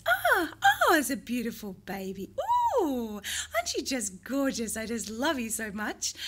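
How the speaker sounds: high, swooping motherese to a newborn; sing-song parentese. Shown as a demonstration. Parent cooing over a newborn, high sing-song parentese. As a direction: croon at the baby in a sing-song voice. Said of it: "we call this really sing-song speaking".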